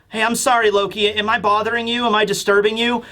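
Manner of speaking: lightly voiced meek, demure caller; a touch of shy politeness; Mosa impression. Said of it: "somewhat meek and maybe demure".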